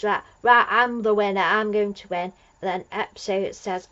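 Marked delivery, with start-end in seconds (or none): 0.0-2.3 louder, eager boast of a winner; mock triumphant shout. Amstrad loudly claiming victory, mock triumphant shout. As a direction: crow loudly about winning. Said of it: "So Amstrad goes".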